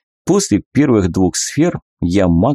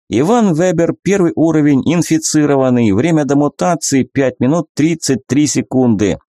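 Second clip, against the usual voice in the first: system readout voice; 6 semitones higher than usual. Acted.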